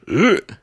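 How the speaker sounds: short "ugh" of distaste; mock disgusted groan. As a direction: groan as if put off by the age. Mock reaction to a bad age.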